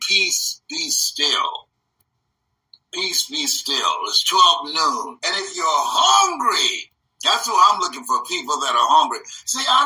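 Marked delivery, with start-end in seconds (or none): 0.1-3.9 low, slow calming words; calm command. Shown as a demonstration. Host modeling how to calm himself, slow calm command. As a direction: settle the storm. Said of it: "and say".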